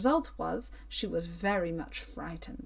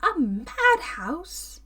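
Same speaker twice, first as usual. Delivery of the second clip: slow, strained cry, higher and louder; whispered scream; 7 semitones higher, 7 dB louder, much slower than usual. A narrator's reading. Captive woman naming the madhouse, in a strangled scream. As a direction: tear the word out in horror. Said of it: "she screamed loudly".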